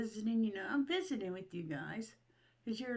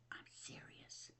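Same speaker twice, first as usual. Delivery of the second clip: breathy whisper, slow and very soft; 21 dB quieter, slower than usual. Real, not acted. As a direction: confide it like a secret, barely audible. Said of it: "my coffee in peace".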